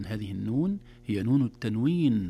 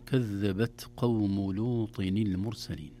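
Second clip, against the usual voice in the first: measured tajweed recitation, slow; slow Quran recitation; 3 semitones lower, slower than usual. Shown as a demonstration. Sheikh recites the verse for radio listeners, slow and measured. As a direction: recite the verse slowly and carefully. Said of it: "من قوله تعالى".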